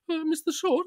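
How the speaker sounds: high, hesitant mock agent; imitating call agent. Mocking the agent's nervous return to the line, high. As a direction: ask it timidly like a nervous agent. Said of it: "She's like".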